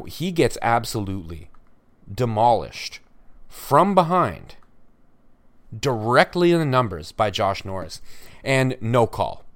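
outraged, slowed phrases; indignant stress. Real, not acted. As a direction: spell out the bad call with disbelief. Outraged at missed penalty.

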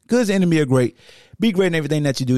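hurried, tumbling read of "Good is the enemy of great"; rushed quote. Real, not acted. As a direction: rush "Be great in everything that you do" without pausing. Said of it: "you messed up the quote".

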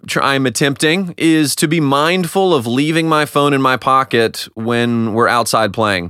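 ordinary delivery

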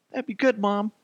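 put-on high-pitched small-boy voice; mollified little kid. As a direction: answer mom like a little child. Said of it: "I'm like".

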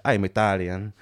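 put-on comic Italian-accented English; stereotypical Italian accent. Italian driver stating his nationality, comic Italian accent. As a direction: announce it in mock Italian. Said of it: "the comically stereotypical accent".

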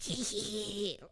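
soft, badly faked hyena giggle; a half-hearted hyena cackle; hyena laugh. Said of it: "that was a terrible impression".

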